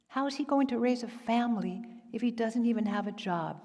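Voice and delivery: a string of mildly indignant questions; mother-in-law's worried interrogation; fretting mother-in-law. Acted. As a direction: question the son-in-law's choices like a protective mother. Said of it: "Do I sound like a mother-in-law?".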